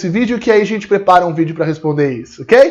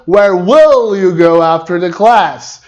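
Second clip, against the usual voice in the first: slow, lower, deliberate question; slow correct question; 4 semitones lower, much slower than usual. Shown as a demonstration. Teacher modelling the corrected question slowly. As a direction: model it slowly, leaning on will. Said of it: "E na outra".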